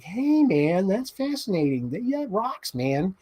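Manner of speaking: Kevin Flynn impression. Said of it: "do all the Kevin Flynn things".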